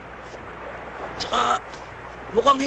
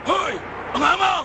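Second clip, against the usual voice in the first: shouting; 6 semitones higher than usual. Acted. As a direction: yell at them to stop. Breaking up a fight.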